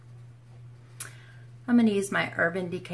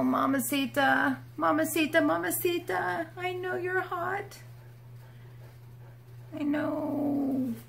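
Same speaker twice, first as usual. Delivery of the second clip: high, sing-song cooing; 8 semitones higher, 3 dB quieter, slower than usual. Real, not acted. Baby talk to dog.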